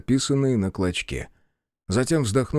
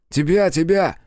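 higher and louder, eager repetition; insistent; 7 semitones higher, 5 dB louder than usual. A narrator's reading. Soldier insists to the hero, higher and louder. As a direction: press the point impatiently. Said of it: "подтвердил боец".

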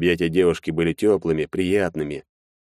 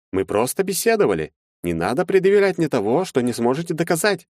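prim lawyer; 10 semitones higher than usual. A narrator's reading. Lawyer to Maxim, reproachful and higher. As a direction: scold him primly.

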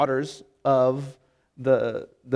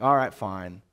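grudging give-in; 7 semitones lower, slower than usual. Retold or imitated. Husband handing over his cookie with a sigh, grudging. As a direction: sigh then a low, reluctant fine. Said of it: "but I'm like".

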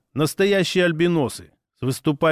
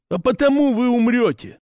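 proud orc voice; 8 semitones higher than usual. Acted. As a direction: announce yourself like a proud tribal hunter.

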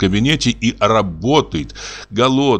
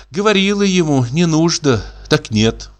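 put-on 1 fretful old woman; 7 semitones higher than usual. A narrator's reading. Mother's fretful complaint.

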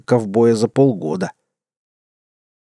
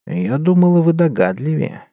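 cold reply; 6 semitones higher than usual. A narrator's reading. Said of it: "холодно ответила дама".

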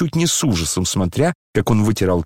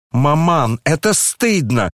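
a daughter crying out, a touch higher and louder; loud protest; 6 semitones higher, slower than usual. A narrator's reading. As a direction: shame her mother with a sharp cry. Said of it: "громко вскричала Аглая". (громкий упрёк дочери матери)

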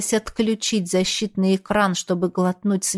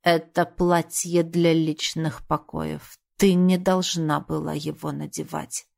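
stony tone; 3 semitones lower than usual. Acted. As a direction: lay it down like stone. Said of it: "заговорил каменным тоном".

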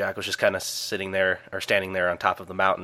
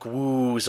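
imitated boat whoosh; 4 semitones higher than usual.

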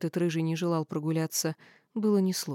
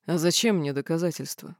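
growled; 2 semitones lower than usual. Acted. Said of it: "прорычал Динар".

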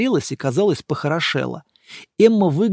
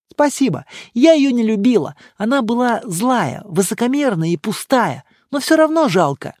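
higher, louder upset female voice; Emma upset; 6 semitones higher, 3 dB louder than usual. A narrator's reading. Emma telling the monk about her boss's dead wife. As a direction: speak of the dead with pity.

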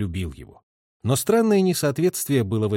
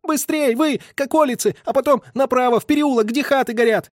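much higher, yelled, choking on wind; shouting into wind; 13 semitones higher than usual. A narrator's reading. Messenger directing galloping gun crew, breathless shout. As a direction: shout while gasping in the wind. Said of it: "кричал, захлёбываясь ветром".

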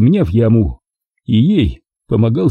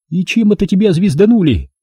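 high, blunt question; Milka, incredulous; 8 semitones higher than usual. A narrator's reading. Milka quizzing him about his head, high and blunt. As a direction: ask it with rough disbelief.

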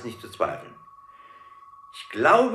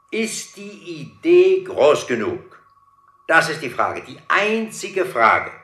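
grand pompous question; 5 semitones higher, 8 dB louder than usual. Acted. Boss booms about big idea.

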